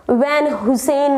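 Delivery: वैन हुसैन like the name Hussain; common mispronunciation. Retold or imitated. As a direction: say वैन हुसैन as 'van hu-sen'. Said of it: "I don't think ऐसी company". (Van Heusenનો ખોટો ઉચ્ચાર, 'વેન હુસેન')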